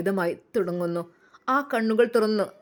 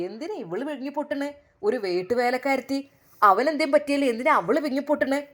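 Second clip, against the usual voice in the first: angry mother-in-law; 5 semitones higher than usual. Acted. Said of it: "ഉമ്മ അവളെ ദേഷ്യത്തോടെ നോക്കി".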